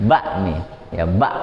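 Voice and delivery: "Bakmi" with a pressed stop after the first syllable; practice glottal stop. Shown as a demonstration. Teacher offering a practice word, pressed stop in bak. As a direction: close "bak" in the throat as a hamzah. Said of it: "Untuk latihan aja".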